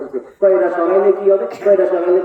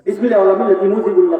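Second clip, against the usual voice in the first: mocking slogan; faster than usual. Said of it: "বুঝছেন না?".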